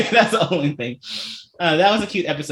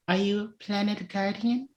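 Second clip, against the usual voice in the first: imitating Eugene; 6 semitones higher, 7 dB quieter than usual. Mimicking contestant question.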